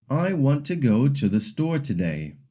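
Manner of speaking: "want", "go", "store" stretched, small words squeezed short; stress-timed English rhythm, long and short syllables; English stress timing. Shown as a demonstration. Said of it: "some syllables are long and some are short".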